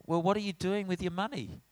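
put-on a dad picking fault with his kid; lightly voiced lecturing father; fatherly lecture. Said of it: "I, in my fatherly role".

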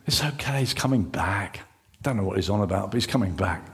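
low, hushed murmur; soft, near-whispered relief; relieved self-reassurance. Acted. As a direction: play a disciple calming himself down. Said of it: "That's Simon Peter talking".

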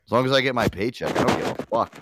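mock Amber Heard. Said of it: "She'd probably be like".

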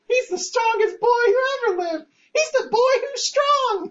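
goofy announcer hyping the hero; mock trailer voice. Mocking a movie trailer.

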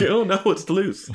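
very high squeaky mock panic. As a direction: shriek it as if a mouse got loose. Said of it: "Yeah, like".

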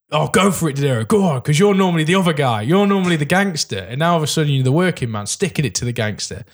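excited cheering on. Retold or imitated. Voices excited cheering for De Niro.

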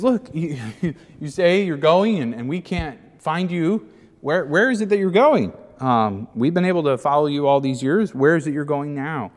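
eager, pressing questions, a little laugh in it; a hint of Peter's frustrated plea. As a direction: voice Peter pushing for an answer. Peter voiced pressing Jesus.

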